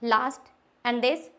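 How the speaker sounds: very slow, stressing each word; slow teacher question; slow deliberate question. Shown as a demonstration. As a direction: ask it word by word. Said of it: "मैंने पहले वाला जो बताया था".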